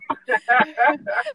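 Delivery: panting laugh while walking uphill; breathless laugh. Real, not acted. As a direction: laugh between gasps for air. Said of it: "Little granny's losing her breath".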